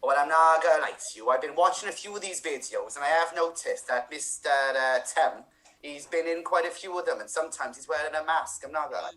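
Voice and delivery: put-on light Welsh accent, chatty; a hint of Welsh, confiding. Improviser confiding in scene partners, lightly Welsh. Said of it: "continue this with a Welsh accent".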